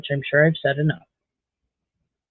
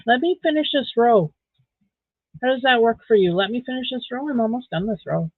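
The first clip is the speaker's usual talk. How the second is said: higher pet-talk voice; higher, pleading with the dog; 6 semitones higher than usual. Real, not acted. Talking to the dog.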